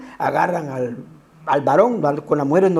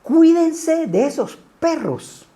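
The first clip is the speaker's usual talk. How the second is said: higher and slow, "Cuídense" leaned on hard; solemn warning; 7 semitones higher, slower than usual. Retold or imitated. Preacher quoting Pablo's warning to the church, slow and raised. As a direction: warn the flock like the apostle, drawn out. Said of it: "cuando dice".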